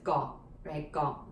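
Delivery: "Guo" with the w dropped, just g and vowel; lazy pronunciation. Shown as a demonstration. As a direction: say "Guo" the lazy way, without its w glide. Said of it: "in the lazy pronunciation".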